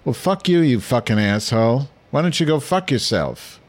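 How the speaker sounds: mock drunken yell, pitched high. Drunk neighbor cursing at another man in the elevator, high mock yell. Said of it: "I heard one guy saying really loud".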